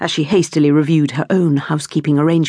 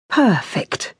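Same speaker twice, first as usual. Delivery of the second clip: declaring; 4 semitones higher than usual. A narrator's reading. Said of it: "declared Irene".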